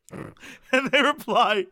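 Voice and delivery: slow, drawn-out lead-in; slow dramatic setup. Acted. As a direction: draw out the setup slowly. Reading emails aloud.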